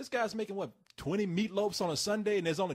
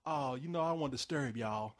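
Channing Tatum; 5 semitones lower than usual. Retold or imitated. Actor's line retold from a movie, low Channing Tatum voice. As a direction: imitate a laid-back actor, pitched down. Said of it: "so Channing Tatum, he would be like".

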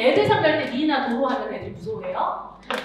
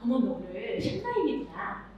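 teasing teacher aside; 2 semitones lower, 6 dB quieter than usual. Shown as a demonstration. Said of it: "텐션으로 말해요".

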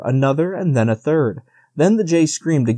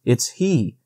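terrified whisper; 7 semitones higher, slower than usual. A narrator's reading. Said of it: "she whispered, her voice choking with terror".

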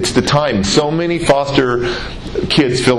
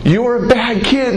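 retold angry telling-off in a raised pitch; imitated yelling mother; 9 semitones higher than usual. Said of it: "she keeps yelling at me".

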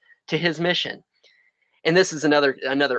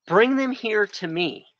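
slow repeat; 5 semitones higher, slower than usual. Acted. Repeats Jesus's words slowly.

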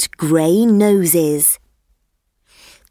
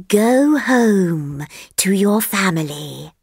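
lazy snake. Acted. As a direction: let the sleepy snake take its time. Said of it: "it said".

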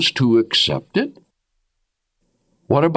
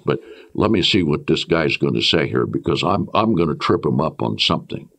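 sly inner thought; 8 semitones lower than usual. Pretend. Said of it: "I don't want you to say".

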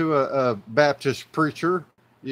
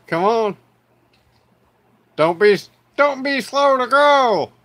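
hyped shout; 9 semitones higher, 9 dB louder than usual. Acted. Hyping up his toy to viewers.

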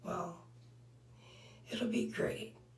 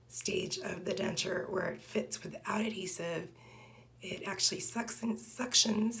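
talking with hand at mouth; fingers against lips. Real, not acted. Seen 0: Fingers press on her lips while talking; dentures come out only after 17 s.

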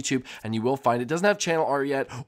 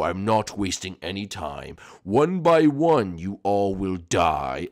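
much lower, slow, menacing villain drawl; low sinister villain; 6 semitones lower, much slower than usual. Acted. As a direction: purr it out like a creepy mastermind. Villain threat.

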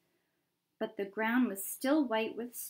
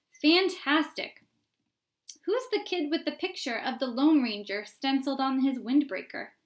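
crowd onlooker; 4 semitones higher, 6 dB louder than usual. Acted.

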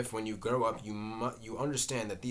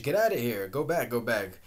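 raised, urgent get out; loud push-off; 7 dB louder than usual. Acted. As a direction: drive her offstage loudly. Pushing her off stage.

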